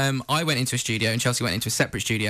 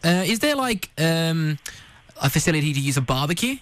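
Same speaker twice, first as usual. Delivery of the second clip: lightly put-on Australian accent, hesitant; 3 semitones higher than usual. Prank caller asking about a barbecue, light Australian accent. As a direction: feel out the question in Australian. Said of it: "doing my Australian accent".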